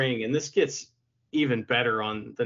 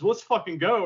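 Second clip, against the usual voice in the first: mock excited yell; 5 semitones higher, 3 dB louder than usual. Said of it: "he just yells".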